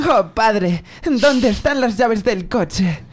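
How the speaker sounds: mock Castilian Spanish accent; Spain Spanish accent. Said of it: "Del español a España".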